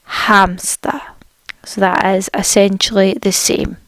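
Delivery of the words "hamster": whispered hamster. Shown as a demonstration. Teacher whispering the word for learners to repeat, whisper. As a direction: breathe Hamster with no voice. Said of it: "unvoiced repeat of the word".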